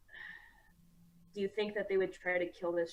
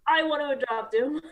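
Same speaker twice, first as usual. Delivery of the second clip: eager; 8 semitones higher, 7 dB louder than usual. Acted. Player voices Tara eagerly.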